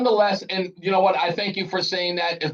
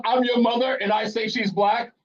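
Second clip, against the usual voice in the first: lightly voiced mother, pitched up; mother's declaration; 5 semitones higher than usual. Host playing the caller's mother, mildly insistent. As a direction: state it as Mom laying down a claim.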